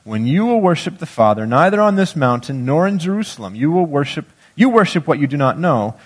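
measured, solemn reading of scripture. Acted. Preacher reads Gospel passage aloud.

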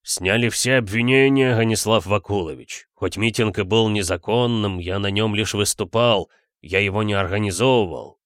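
lightly burred intellectual speech; slight burr. A narrator's reading. Geologist explains his release to the detective, r's slightly burred. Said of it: "слегка картавил".

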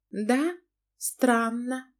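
taken aback, she scolds him; wife Lana. Acted. Narrator voices the wife Lana.

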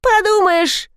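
высоко и пренебрежительно, фыркнув; фыркни с презрением. A narrator's reading. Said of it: "фыркнула Настя". (Настя презрительно фыркает на брата, высоко)

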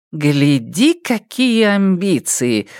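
slow, sarcastic mock praise; sarcastic jab. Geng mocking Jintun's plans, slow sarcasm. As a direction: needle him with sarcasm. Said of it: "съязвила Гэн Лянь-Лянь".

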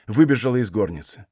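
ordinary delivery

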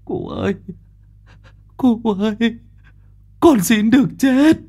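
high, tearful pleading; whimpering. Acted. Guilty boy begging old Diệp to let him die, tearful and high. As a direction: beg to die through sobs. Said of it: "Nó mếu máo".

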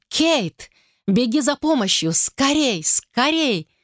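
high, urgent cries for help; frightened call for help. Acted. Terrified wife begs the maid to fetch help, high panicked cries.

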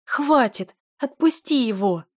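sobbing desperate yell; tearful shout. A narrator's reading. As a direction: scream at him to let go. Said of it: "кричала Дель".

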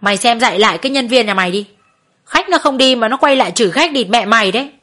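understated angry reprimand; mild scolding. Acted. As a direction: scold the worker's boss, a touch heated. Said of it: "ông ấy mắng".

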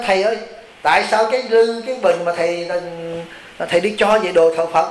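lightly voiced woman reproaching the monk; just a touch of her complaint in your voice; a hint of a scolding laywoman. Monk quoting a laywoman's reproach, lightly voiced. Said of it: "bà mới trách, bà nói".

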